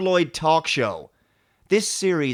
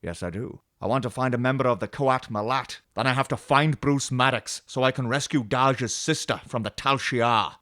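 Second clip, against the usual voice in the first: Picard. Acted. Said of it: "about everything Picard says and does".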